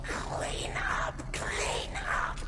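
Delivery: breathy whispered chant. Real, not acted. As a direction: whisper it under your breath.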